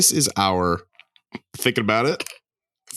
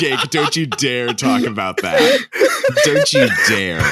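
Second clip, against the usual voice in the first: laughing mock warning; 2 semitones higher than usual.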